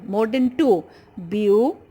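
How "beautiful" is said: "Beautiful" split into three separate beats; syllable by syllable. Shown as a demonstration. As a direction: count out "Beautiful" as beau - ti - ful, pausing between parts. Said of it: "made up of three syllable".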